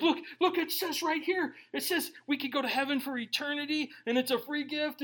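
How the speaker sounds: high, eager, laughing look-look; childlike excitement. Retold or imitated. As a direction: show it off like a thrilled kid. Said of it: "I would just start reading the word and be like".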